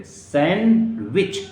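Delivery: सैंडविच said sanwich, no d; slow सैंडविच with the d dropped; correct sandwich. Shown as a demonstration. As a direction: silent d in sandwich. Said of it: "डी नहीं बोलेंगे".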